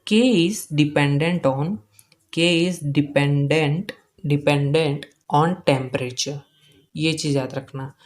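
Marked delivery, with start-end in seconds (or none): 0.1-6.4 slow, measured delivery with pauses between chunks; slow dictation. Real, not acted. Teacher giving students a point to remember, slow dictation. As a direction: dictate it slowly, piece by piece.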